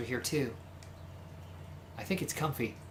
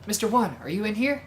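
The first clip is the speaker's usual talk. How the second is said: higher, playful rogue; flamboyant charmer voice; 5 semitones higher than usual. Acted. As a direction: greet them like a dashing flirt. Voices Yuya, high cheerful rogue.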